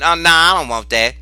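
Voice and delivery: offhand shrugging no; mock casual brush-off; nonchalant. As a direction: wave it away lightly. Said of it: "You being nonchalant and saying".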